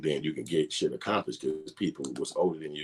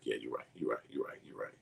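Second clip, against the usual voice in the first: meek agreement; 4 semitones lower, 11 dB quieter than usual. Retold or imitated. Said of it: "He like".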